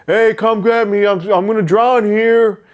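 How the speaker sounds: high, loud, slow pleading cry; drowning man's plea. Retold or imitated. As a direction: beg for help as if going under. Drowning neighbor voiced pleading.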